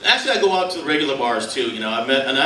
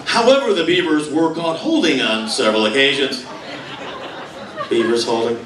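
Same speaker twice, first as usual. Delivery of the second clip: lightly played match analyst; deadpan sports announcer. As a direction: deliver the analysis with a straight face. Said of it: "how would the announcers be able to keep a straight face".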